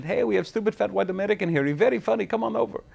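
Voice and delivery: high, gleeful put-on voice; mock translation. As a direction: play the gunman mocking him. Mock translation of phone call.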